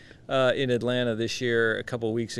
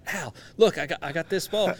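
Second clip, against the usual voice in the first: higher, eager show-off; excited; 5 semitones higher than usual. Retold or imitated. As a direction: hold up the prize and crow about it. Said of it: "I'm like".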